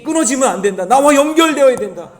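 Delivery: very loud, high preaching shout; crying out. Acted. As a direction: shout it as an urgent command. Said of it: "계속해서 외치고 있는 거예요". (높고 크게 외치기)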